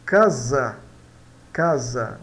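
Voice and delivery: "casa" with a hard K, each time on its own; Spanish pronunciation model. Shown as a demonstration. Teacher repeating the word for learners, Spanish pronunciation model. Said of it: "vai dar K".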